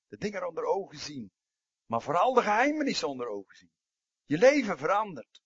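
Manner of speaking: building preacher's cry. Acted. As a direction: drive it home, growing with each phrase. Preacher urging toward change.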